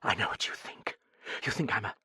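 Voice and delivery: bitter. A narrator's reading. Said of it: "she said bitterly".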